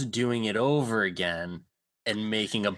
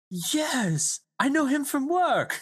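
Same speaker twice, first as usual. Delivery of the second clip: Thor impression; slower than usual. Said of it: "and he's like".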